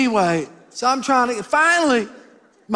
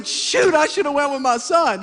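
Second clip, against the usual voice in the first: inner regret; 6 semitones higher than usual. Retold or imitated. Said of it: "I'm thinking".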